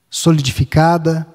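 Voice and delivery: usual speaking voice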